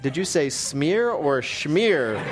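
"smear or schmear" slow, stressing the sh in "schmear"; contrasting smear and schmear. Retold or imitated. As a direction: set "smear" against "schmear", slowly. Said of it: "the interviewer was like".

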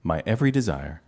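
low, lover's declaration, hammed gently; acted tender declaration; mock romantic. Quiz clue voiced as love declaration.

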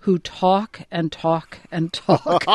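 slow, drawn-out sarcastic quoting; sarcastic quote. Retold or imitated. Commentator quoting John Adams's letter about great men, sarcastic. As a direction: quote it wryly, dragging out each talk. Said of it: "very sarcastically".

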